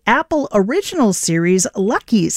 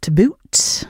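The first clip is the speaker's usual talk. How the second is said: Canadian accent. Shown as a demonstration. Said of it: "That was my Canadian accent".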